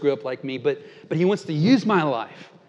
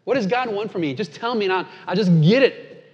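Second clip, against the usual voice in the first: sneering; 4 semitones higher, 4 dB louder than usual. Retold or imitated. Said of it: "you can almost hear the sneer in that".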